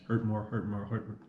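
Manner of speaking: quick, softening tongue-twister run; fast tongue-twister attempt. Shown as a demonstration. Vlogger jokingly tests saying it five times fast, rapid repetition. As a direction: rattle it off quickly under your breath. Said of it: "Say that five times fast".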